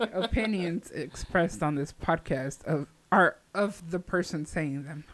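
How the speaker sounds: slow, deliberate announcer read; mock disclaimer. Host covering co-host's remark, slow mock-formal disclaimer. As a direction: recite it like an official disclaimer, very slowly.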